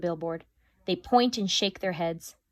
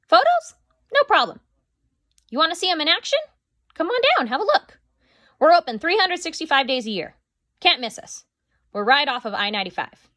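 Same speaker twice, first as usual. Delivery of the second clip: high, loud eager salesman on the phone; Mac's sales pitch; 9 semitones higher, 6 dB louder than usual. Acted. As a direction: sell it hard, pitched way up and loud.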